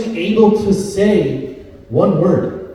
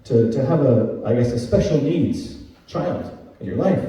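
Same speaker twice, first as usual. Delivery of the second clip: mock pity; 2 semitones lower, 6 dB quieter than usual. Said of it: "you know, like".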